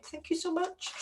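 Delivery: playful high-pitched thanks to viewers; squeaky high thanks. Real, not acted. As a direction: pop up into a tiny cute voice. Cute thanks to subscribers.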